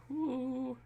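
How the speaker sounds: normal talking voice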